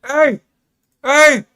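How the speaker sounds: high, loud hype yells; excited shouting. Real, not acted. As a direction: shout it out at the play. Sudden play on stream.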